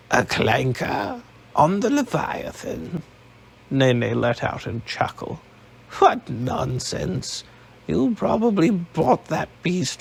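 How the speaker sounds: lightly voiced old woman, mocking; a hint of an old woman scoffing; scornful old matriarch. Nene voiced in the story.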